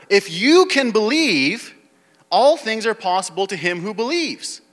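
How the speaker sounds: high, slow and loud on the key line. Shown as a demonstration. Preacher repeating Jesus' promise to the congregation, high and forceful. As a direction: lift it up and press it home. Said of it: "No, he said".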